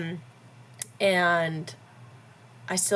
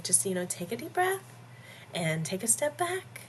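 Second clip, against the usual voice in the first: higher, softer coaxing tone; mom's calming advice; 5 semitones higher, 5 dB quieter than usual. Retold or imitated. Mom giving Disneyisms to help, soft coaxing. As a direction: gently talk someone down, lilting upward. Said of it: "she's like".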